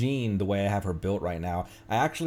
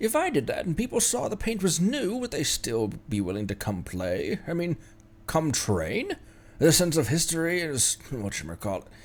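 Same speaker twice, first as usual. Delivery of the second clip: put-on grandpa voice, much higher pitched; 8 semitones higher than usual. Voicing an old character's lines in the grandpa voice of Cloud Piercing Arrow. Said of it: "what's my grandpa voice?".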